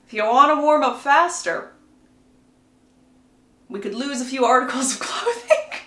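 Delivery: lightly voiced teenage boy, breaking into laughter. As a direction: suggest it like a cheeky teenager, half laughing. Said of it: "like a teenage boy".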